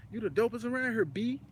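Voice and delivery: high, light imitation of a stranger's non-Texas slang accent; imitated Louisiana-style stranger, high; mock outsider accent. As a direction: flatter him in a put-on Louisiana accent. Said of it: "Nah, we don't say B".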